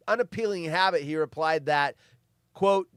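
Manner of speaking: ordinary talk, nothing marked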